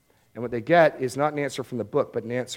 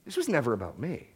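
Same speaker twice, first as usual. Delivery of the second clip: softer repeat, "never" lowered with a gentle rise at the end; quiet echo; 5 dB quieter than usual. Retold or imitated. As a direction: let "This was never about me" sink to a softer, rising echo. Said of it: "And what he's saying is".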